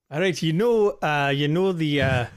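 badly faked Irish accent. Screenwriter opening his elevator pitch to a mogul, in a bad Irish accent. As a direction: attempt an Irish accent, not very well. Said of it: "accent of yours".

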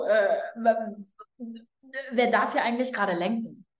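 a hint of a low, puzzled watchman asking who's steering; lightly voiced guard questioning who holds the wheel; puzzled inner guardian. Soul's guardian asking who steers, lightly voiced puzzled watchman. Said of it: "der Wächter, okay, deine Seele und sagt so".

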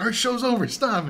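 high, loud retold alarm; mock freak-out. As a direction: imitate a crew frantically calling a halt. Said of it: "freaking out".

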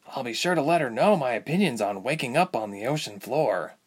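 lightly voiced sleepy girl objecting; Ilse. Voices Ilse's sleepy retort.

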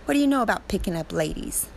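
retold motherly disbelief, quickening at the end; mock incredulous. Mother challenging her four-year-old about ladies, mock incredulous.

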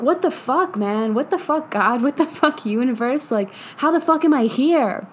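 exasperated venting, pitch jumping on each curse; mock anger. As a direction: rail at the universe in mild frustration. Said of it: "that anger, that, like".

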